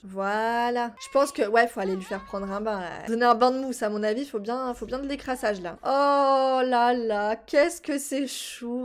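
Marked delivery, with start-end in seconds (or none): 5.8-8.8 slow, drawn-out gushing; tender coo; doting aww. Real, not acted. Baby in bath.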